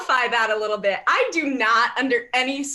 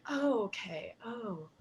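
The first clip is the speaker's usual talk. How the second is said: put-on old woman realizing; 4 semitones lower, 11 dB quieter than usual. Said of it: "she's like".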